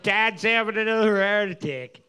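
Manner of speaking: put-on Chicago Superfan accent, lightly done; a hint of a Chicago sports fan accent. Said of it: "your Chicago accent".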